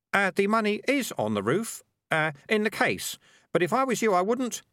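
put-on high, halting boy's voice; nervous high-pitched child character; hesitant kid. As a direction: warn timidly with little uhs.

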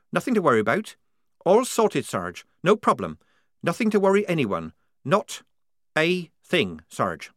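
high, loud over-eager reassurance; smooth it over too hard; tense reassurance. Acted. Polly anxious reassurance.

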